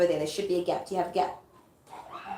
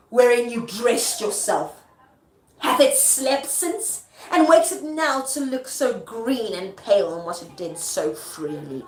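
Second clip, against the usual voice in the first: slow, loud start, dropping away at the end; deliberate stage questioning; theatrical taunt; 3 dB louder, slower than usual. Acted. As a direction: declaim it as a scornful challenge. Performs Lady Macbeth's taunting speech.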